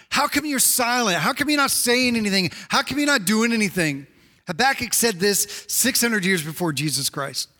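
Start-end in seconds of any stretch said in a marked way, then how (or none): 0.1-4.1 higher-pitched, mildly upset questioning; upset pleading. Acted. Prophet questioning God's silence, upset. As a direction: press each question with mild frustration. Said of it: "he's pretty upset that God seems to be quiet".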